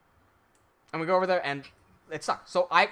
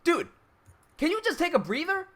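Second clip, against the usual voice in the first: higher and louder, slowed and pointed; exasperated scolding; 5 semitones higher, 6 dB louder than usual. Real, not acted. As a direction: tell him off for nearly losing the work. Berating the guy who jammed it.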